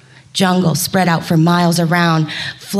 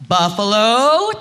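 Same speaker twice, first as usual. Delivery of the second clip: roar; 3 dB louder, slower than usual. Acted. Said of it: "Tiger roared".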